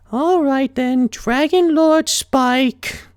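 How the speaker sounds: sarcastic, drawn-out title; eye-rolling. A narrator's reading. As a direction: say it with a roll of the eyes. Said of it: "with a little less eye rolling".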